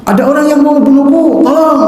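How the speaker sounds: high frightened cry for help; a retold scream for help, pitched high; panicked plea. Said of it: "Abu Rafiq masih berteriak".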